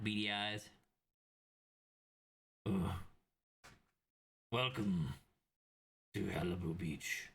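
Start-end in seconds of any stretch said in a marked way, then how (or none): 2.6-7.3 obese devil. Acted. Huge devil checking tokens and welcoming travellers, ponderous. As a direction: welcome them as a hulking, unhurried devil. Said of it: "corpulent, extremely obese, uh, devil".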